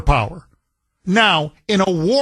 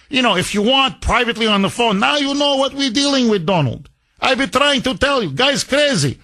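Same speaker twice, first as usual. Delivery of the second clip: higher, fawning mock accent; mocking Zelensky; 4 semitones higher than usual. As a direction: flatter Donald, hammed up. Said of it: "All you say is".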